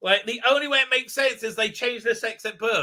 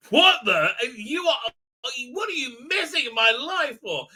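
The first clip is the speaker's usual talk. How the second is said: mock outrage; 3 semitones higher than usual. Acted quarrel, Clyden objects.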